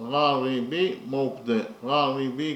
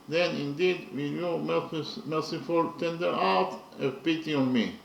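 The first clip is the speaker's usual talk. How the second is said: measured, earnest reading of verse; poem recital. Acted. Teacher reading a poem translation to students, recited. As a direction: recite the stanza with feeling. Reads translated stanza aloud.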